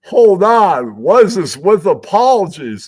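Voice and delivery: high, loud startled catch; mock surprise. Bored producer spots a video, taken aback. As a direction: stop short at what you see. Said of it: "he's like".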